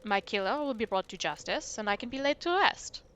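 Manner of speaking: mild French ghost voice; a lightly French, wistful ghost; hint of a French accent. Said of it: "the accent".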